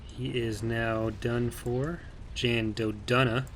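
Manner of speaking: slow, halting Walken-style drawl; oddly paced, deliberate pauses; Christopher Walken impression. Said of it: "I just went full, like, Christopher Walken".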